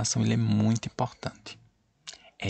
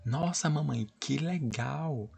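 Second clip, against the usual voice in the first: put-on higher, slow delighted child's voice; excited girl; 5 semitones higher, 4 dB quieter, slower than usual. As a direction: play the thrilled little girl. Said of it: "Aí a menina falou".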